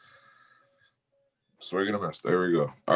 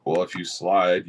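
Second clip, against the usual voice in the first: slow drawl; slower than usual. Shown as a demonstration. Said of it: "slow deliberate line delivery".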